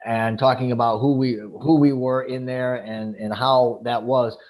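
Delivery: ordinary talk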